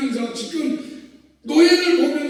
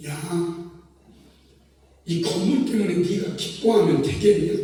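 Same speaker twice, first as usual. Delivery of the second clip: stern Holy Spirit; 5 semitones lower than usual. Retold or imitated. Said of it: "성령님이".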